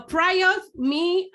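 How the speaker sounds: normal talking voice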